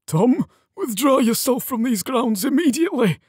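high, strident command; barked order. A narrator's reading. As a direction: order him off with outraged authority. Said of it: "Sir Lorak barked at him".

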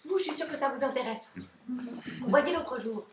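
confidence. Acted. Confidence soudaine au public.

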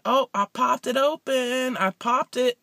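lightly mock the guy's boast; imitating the guy.

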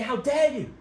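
lightly acted House of Commons indignation; indignant Tory politician. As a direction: imitate a politician declaiming indignantly. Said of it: "Tory politicians stand up in the House of Commons and say".

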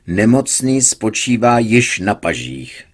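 slow, read-out-loud tone; doctor reading a caption aloud. A narrator's reading. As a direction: read it off the page. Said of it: "četl nahlas doktor Herget".

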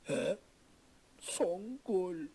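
breathed without voice; fearful whisper. Acted. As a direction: whisper her name in dread. Korkuyla fısıldama. (korkuyla fısıltı)

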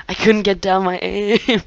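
amused, drawn-out whine; laughing lament. Real, not acted. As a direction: moan about the miss while cracking up. Laughing over a failed shot.

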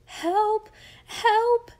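high, loud scream for help; screamed plea. A narrator's reading. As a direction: cry out in panic, pitch leaping up. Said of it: "she screamed".

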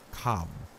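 calm grave command; grave professor. Acted. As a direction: say it calmly and gravely. Van Helsing calls Arthur.

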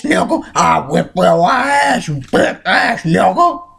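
lightly voiced mean blind old man picking a fight; a hint of a cranky old man daring someone to fight; Stinkmeaner. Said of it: "I'm gonna be doing Steak Mina".

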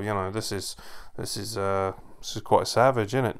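low, softened, halting understatement; unemotive mockery. Mocking commentators who sit on their hands, unemotive. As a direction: imitate a commentator with no investment at all. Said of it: "No, fucking emote more".

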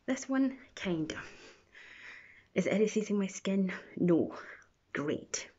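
wet mask over lips; talking under face mask; through a sheet mask. Real, not acted. Seen 0: Sheet mask covers whole face including around mouth throughout; references show none.

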